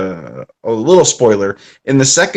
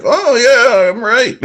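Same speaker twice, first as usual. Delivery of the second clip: Mickey impression; 10 semitones higher, slower than usual. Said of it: "Mickey's like".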